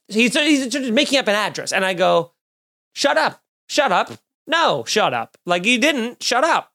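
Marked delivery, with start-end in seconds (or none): 2.9-6.7 high, disbelieving shut up, repeated; incredulous shut up. Retold or imitated. Comic to heckler, playful disbelieving shut up. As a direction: brush him off in playful disbelief.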